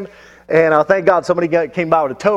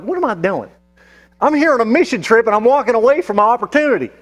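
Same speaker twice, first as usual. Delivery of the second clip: higher-pitched, incredulous self-rebuke; retold moment of self-reproach; exasperated self-questioning; 5 semitones higher than usual. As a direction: question yourself in mild disbelief, pitch lifted. Scolds himself in retold thought.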